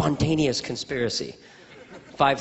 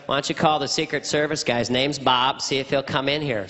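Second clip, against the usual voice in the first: exaggerated presidential voice; folksy president coaxing a guest; comic send-up of a president; George Bush impression; 2 semitones lower than usual. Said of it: "My George Bush impression was".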